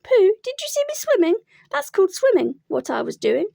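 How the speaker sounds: high, loud squeaky boast; excited squeak. A narrator's reading. Roo boasts to everyone, excited squeak. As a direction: squeal it with pride.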